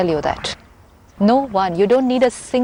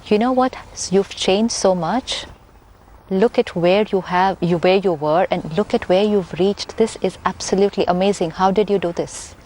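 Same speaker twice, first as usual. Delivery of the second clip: admiring praise. Shown as a demonstration. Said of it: "it could be".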